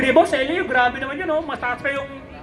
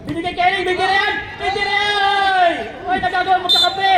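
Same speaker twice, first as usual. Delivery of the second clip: raised, excited basketball call; live play-by-play; 4 semitones higher, 3 dB louder than usual. Real, not acted. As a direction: follow the ball in short urgent bursts.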